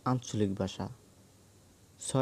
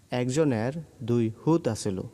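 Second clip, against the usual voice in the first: Noakhali dialect; 3 dB louder than usual. Shown as a demonstration. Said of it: "নোয়াখালীর আঞ্চলিক ভাষা হলো".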